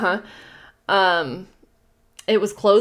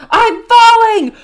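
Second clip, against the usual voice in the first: loud, high, slow thunderous shout; thundering voice; 14 semitones higher, 13 dB louder, much slower than usual. Acted. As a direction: let it boom down the chimney. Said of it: "thundered the voice".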